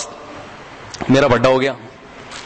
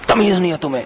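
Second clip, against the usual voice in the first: higher-pitched imitation of a scolding; mock angry yell; 4 semitones higher, faster than usual. Admin scolding an employee in anger, mock yell. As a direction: act out a boss snapping, without full volume. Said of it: "मैंने जोर से चीखा".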